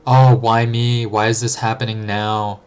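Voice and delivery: hammed-up woe-is-me lament; self-pitying whine. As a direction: moan it like someone feeling sorry for themself. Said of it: "'Cause the alternative is".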